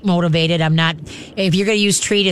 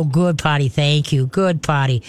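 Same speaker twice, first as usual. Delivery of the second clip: lower, calm praise for a dog; 3 semitones lower than usual. Shown as a demonstration. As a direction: praise the dog calmly, keeping it low. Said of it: "you just very calmly go".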